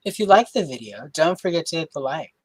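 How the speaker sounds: polished broadcast read; newscaster voice. Shown as a demonstration. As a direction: read it like an evening news anchor. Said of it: "if I do it that way in that voice".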